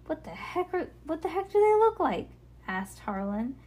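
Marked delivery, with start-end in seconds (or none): 0.1-2.3 put-on excited child voice. Harlan's excited question.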